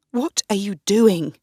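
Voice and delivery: mildly angry question; a hint of anger at her husband; queen confronts Darnley, lightly angry; asked angrily. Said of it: "I asked Darnley angrily".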